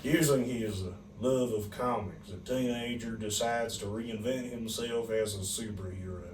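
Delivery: clue read in a Southern accent. Shown as a demonstration. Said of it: "read it back to me in a southern accent".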